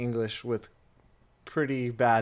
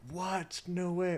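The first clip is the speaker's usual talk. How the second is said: mock surprise; 7 semitones higher, 6 dB quieter, much slower than usual. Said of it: "I was like".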